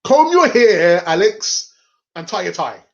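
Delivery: lightly voiced nagging brother; bossy brother. Brother showing him how to tie a tie, mock bossy. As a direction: imitate a brother telling you off. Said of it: "before my brother showed me".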